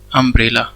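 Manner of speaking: अम्ब्रेला said with an uh sound at the start; umbrella pronunciation. Shown as a demonstration. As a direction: say अम्ब्रेला opening on a short uh, not yu. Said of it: "उसका जो pronunciation है". (अम्ब्रेला का उच्चारण अ से)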